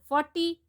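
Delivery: "Forty" stressed on FOR; careful teacher's "Forty", weight on FOR; first-syllable stress. Shown as a demonstration. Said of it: "first syllable".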